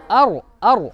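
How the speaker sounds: अर with a full, heavy R; thick heavy R. Shown as a demonstration. Teacher drilling the syllable with pupils, thick R. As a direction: say each अर separately, thickening the R. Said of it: "मोटा करना है".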